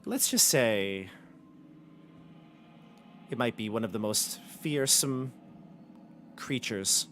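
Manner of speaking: coy, ominous boasting; secretive villainess. Acted. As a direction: build mystery, trailing down softly at the end. Same character hints at the creature.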